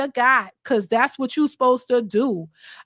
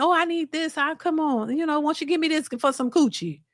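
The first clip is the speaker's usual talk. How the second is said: put-on charming, coaxing, sweet-talking tone; 3 semitones higher, 3 dB quieter than usual. Acting out a woman asking a man for money: put-on charming voice to a man. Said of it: "Charm the man".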